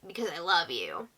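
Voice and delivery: softly imitated cutesy voice. Jed alone with Beth saying he loves her, imitated cutesy voice. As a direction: put on a quiet, mildly cutesy tone. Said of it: "like, cutesy voice".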